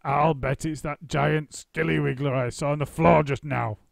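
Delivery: husband teasing in mock alarm; Mister Twit. A narrator's reading. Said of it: "Mister Twit said".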